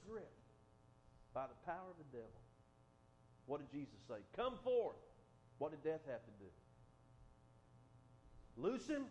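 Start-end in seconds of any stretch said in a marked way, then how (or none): 4.4-5.0 "Come forth" shouted loud and high; a command to death itself. Acted. Preacher voices Jesus commanding death. 8.6-9.1 "Loose him" shouted high and loud; forceful command. Acted. Preacher voices Jesus commanding death.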